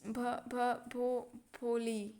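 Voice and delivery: slow, halting stutter resolving into the name; imitated stammer. Girl finally gets her name out, stammering, imitated. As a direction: stammer syllable by syllable until the word comes out. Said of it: "तो भोली बोलने लगती है".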